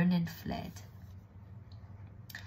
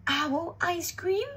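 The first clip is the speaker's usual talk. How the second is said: high, slow horrified question; alarmed owl; 11 semitones higher, slower than usual. Acted. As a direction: draw it out in disbelief. Owl learns it may be eaten.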